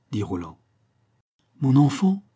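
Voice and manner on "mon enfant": put-on raised, louder address to a child; lightly acted parental tone; paternal tone. A narrator's reading. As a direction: address them like an indulgent parent. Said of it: "prenant un ton paternel".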